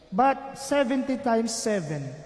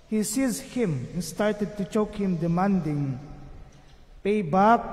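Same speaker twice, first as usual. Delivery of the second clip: measured, lower liturgical reading voice; solemn scripture reading; gospel reading; 3 semitones lower than usual. Acted. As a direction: proclaim the Gospel evenly from the ambo. Gospel read before homily.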